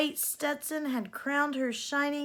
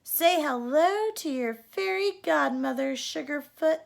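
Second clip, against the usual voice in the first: put-on old cowgirl godmother; 4 semitones higher, 5 dB louder than usual. Cowgirl fairy godmother speaking.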